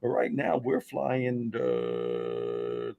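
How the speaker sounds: a hint of a calm captain on the intercom. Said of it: "he comes on the P A system".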